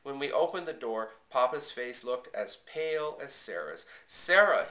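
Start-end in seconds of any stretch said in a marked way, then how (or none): 4.1-4.7 high, loud cry of alarm; sudden shout, falling at the end. A narrator's reading. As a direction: cry out her name. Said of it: "he cried out".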